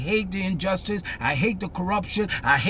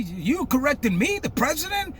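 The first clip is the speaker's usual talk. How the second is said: arrogant; 7 semitones higher than usual. Retold or imitated. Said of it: "He's arrogant, prideful".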